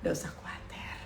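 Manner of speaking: low, soft whisper; whispered reassurance. Real, not acted. Preacher telling congregation not to worry, whispered. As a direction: drop to a comforting whisper.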